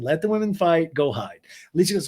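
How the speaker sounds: normal talking voice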